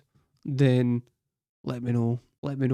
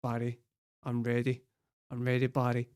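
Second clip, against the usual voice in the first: much softer, low, hushed voice; mock seductive murmur; 3 semitones lower, 9 dB quieter than usual.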